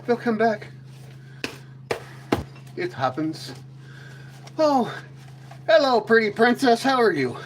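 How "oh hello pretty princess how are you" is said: out of breath. Real, not acted. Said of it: "I'm a little out of breath".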